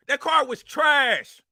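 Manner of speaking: slow, shouted scorn; angry slow shout. Real, not acted. Angry rant at a rival.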